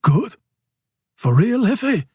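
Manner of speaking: sharp question leaping high. A narrator's reading. Casper questioning his boss in disbelief, sharp. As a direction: challenge it sharply, pitch shooting up. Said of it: "Casper sharply says".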